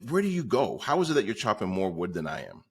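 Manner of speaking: mildly baffled, pitch jumping on the opening question; puzzled questioning. Retold or imitated. One lumberjack quizzing the other on his output, mildly baffled. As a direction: ask it like a puzzled rival.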